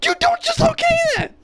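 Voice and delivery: high, loud indignant shout; outraged yell. Real, not acted. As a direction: scold the phone in disbelief. Outraged at assistant reply.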